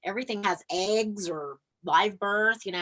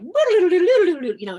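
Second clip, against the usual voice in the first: laughing; 10 semitones higher, 10 dB louder than usual. Real, not acted. Laughs at her own guitar skills.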